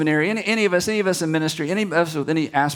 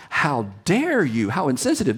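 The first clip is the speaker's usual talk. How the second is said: mock indignation. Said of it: "they weren't indignant like".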